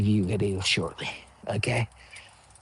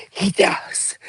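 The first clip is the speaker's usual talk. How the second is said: hushed gossip; whispered; 6 semitones higher than usual. Shown as a demonstration. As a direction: say it under your breath. Whispers, then repeats aloud.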